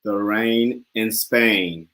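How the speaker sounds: slow, careful British accent; British accent attempt. Shown as a demonstration. Student repeating after the dialect coach, careful British accent. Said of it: "he's a natural at the British accent".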